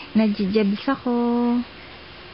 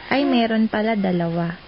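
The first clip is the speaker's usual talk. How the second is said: a lightly voiced toddler, a touch lower; baby voice; 4 semitones lower than usual. Mother speaking for her baby daughter to Daddy, lightly voiced toddler. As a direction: speak for the little girl, proud and cute.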